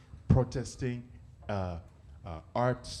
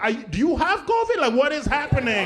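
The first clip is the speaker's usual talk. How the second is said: mock alarm; 7 semitones higher, 4 dB louder than usual. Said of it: "I'll be like".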